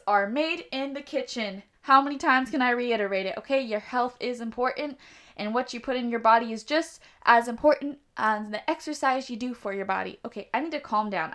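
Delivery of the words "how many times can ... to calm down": wired and rushing, too much caffeine; fast jittery over-energized delivery. Real, not acted. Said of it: "I'm so jittery right now".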